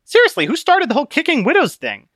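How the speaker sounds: a small scolding voice on his shoulder; tiny Conscience. Acted. Conscience correcting Obstinate, high and prim.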